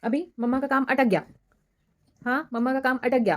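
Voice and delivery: high playful cooing, calling him a rascal. Real, not acted. Mother playfully calling her baby a little rascal, high cooing.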